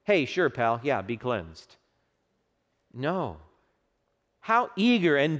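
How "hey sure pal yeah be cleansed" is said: offhand, shrugging "be cleansed"; careless, throwaway blessing; casual indifference. Shown as a demonstration. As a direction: toss it off like it's nothing. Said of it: "did not utter these words with casual indifference".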